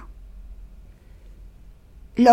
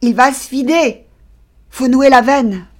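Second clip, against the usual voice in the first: high, loud cry of alarm; alarmed shout; 5 semitones higher, 10 dB louder than usual. A narrator's reading. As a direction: shout an urgent order to your mates. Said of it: "un des matelots cria". (cri d'alarme, fort et aigu)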